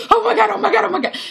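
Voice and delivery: very high, laughing shriek; breathless joyful screaming; overjoyed shriek. Retold or imitated. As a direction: squeal it through laughter. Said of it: "So I was like".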